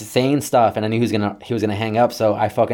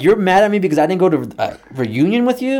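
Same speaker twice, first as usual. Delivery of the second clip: high-pitched retold disbelief; acted exasperated question; incredulous; 9 semitones higher, 4 dB louder than usual. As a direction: ask it as if it were absurd. Acted baffled reaction to dad.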